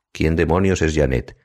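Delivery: "¿Quién demonios es Janet?" with each word underlined; emphasizing the words. A narrator's reading. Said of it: "Pregunta subrayando las palabras".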